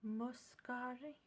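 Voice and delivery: slow, careful spoken reading of the name; slow aloud. Real, not acted. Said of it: "I can't understand what that says".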